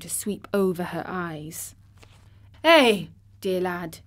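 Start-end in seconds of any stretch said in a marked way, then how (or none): 2.6-4.0 tremulous. Acted. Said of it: "she broke out tremulously".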